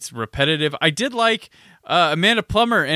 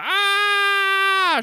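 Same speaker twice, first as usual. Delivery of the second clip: long, high held "aaah" yell; drawn-out movie-hero firing-in-the-air scream; imitated Point Break yell. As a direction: hold one high mock scream. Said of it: "Point Break hot fuzz thing".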